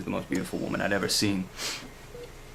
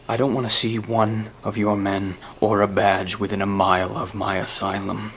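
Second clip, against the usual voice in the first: menacing threat; 6 dB louder than usual. Acted. Threatening phone message to Gordon.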